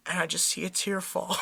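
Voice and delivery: low, soft and grave; quiet mock-solemn narration; hushed solemn telling. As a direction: let it drop for the sad moment. Solemn story beat, tear falling.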